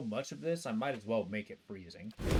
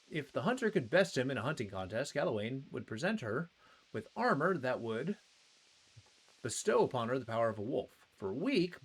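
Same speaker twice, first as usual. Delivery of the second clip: storyteller reading item lore; 2 semitones higher than usual. Acted. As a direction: read it like a legend. Reads item lore aloud.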